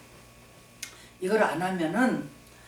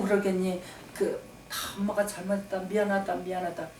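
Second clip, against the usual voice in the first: tender apology. Retold or imitated. Mother apologizing to her son.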